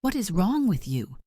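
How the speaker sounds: high, loud outraged yell. A narrator's reading. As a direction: yell it in disbelief. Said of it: "Claire yelled".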